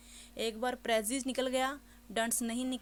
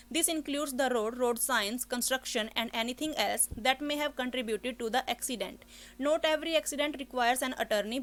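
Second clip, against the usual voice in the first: slow, careful exam reading; model read aloud; 3 dB louder, much slower than usual. Shown as a demonstration. Teacher demos a test passage, slow and careful. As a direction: read each word deliberately, slowly. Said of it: "देखो इसको कैसे read करना है आपने".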